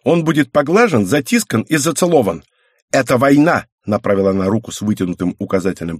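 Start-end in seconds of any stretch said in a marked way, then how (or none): 0.0-3.7 put-on determined girl. Girl declares war on cat.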